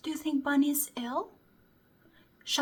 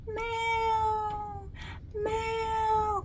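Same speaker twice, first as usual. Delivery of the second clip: cat meow; 5 semitones higher than usual. Shown as a demonstration. Slow meow demonstration.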